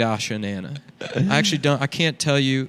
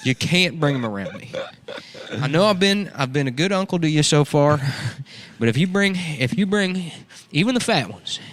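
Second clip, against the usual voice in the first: creepy uncle voice; 3 semitones higher than usual. Acted. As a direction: play the pervy uncle lecturing his niece, higher. Uncle character warning niece.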